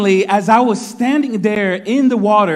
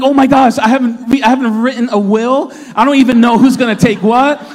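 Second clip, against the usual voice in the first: higher and louder frantic rambling; mock panic; 5 semitones higher, 5 dB louder than usual. Father in the sea frets about his will, hammed-up panic. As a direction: fake deathbed worry, played big. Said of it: "I'm freaking".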